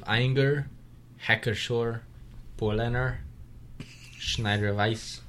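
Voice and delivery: slow mock German accent on names. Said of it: "That was my authentic German accent".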